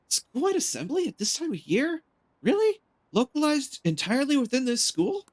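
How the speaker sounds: mock principal voice. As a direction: squeak it like a flustered principal. S0 hamming up a character quote.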